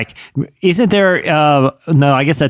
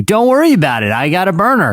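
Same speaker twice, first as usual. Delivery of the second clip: lightly pitched-up, brush-it-off reply; lightly voiced impression, higher at the start; impression of a singer; 4 semitones higher than usual. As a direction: wave away a friend's doubts. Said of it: a question about how good his impression of the singer is.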